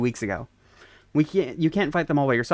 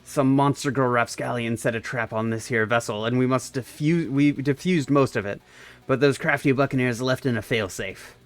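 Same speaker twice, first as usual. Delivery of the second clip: lightly hammed pirate talk, a bit lower; old-timey pirate; 4 semitones lower than usual. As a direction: play a mild storybook pirate captain. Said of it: "told me to talk like an old-timey pirate".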